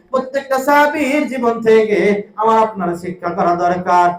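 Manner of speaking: intoned sermon, stretched phrase endings; half-sing the sermon to the crowd; melodic waz preaching. Real, not acted. (সুর করে ওয়াজ)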